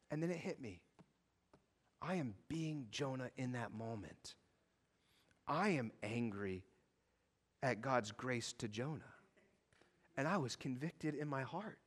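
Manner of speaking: softly owning his own anger; quiet confession. Acted. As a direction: drop down and confess it gently. Quiet confession after the outburst.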